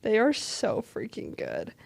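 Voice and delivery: hushed, excited whisper. Real, not acted. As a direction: whisper it like a thrilling secret. Hushed gushing about songs.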